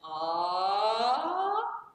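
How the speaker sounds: chest-voice start of a siren. Shown as a demonstration. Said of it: "I start out in chest".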